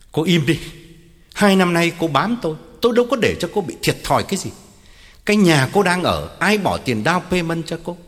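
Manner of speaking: stern, angry dressing-down; through gritted teeth. Acted. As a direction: coldly list what she owes, then cut her off. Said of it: "Ông nghiến răng bảo". (nghiến răng mắng mỏ)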